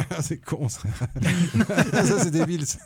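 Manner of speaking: re-enacted giggling at something dumb; imitated snickering. Viewer recalling how he snickered at the film, chuckling. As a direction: scoff through a laugh. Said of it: "je ricanais suffisamment pour que ça soit".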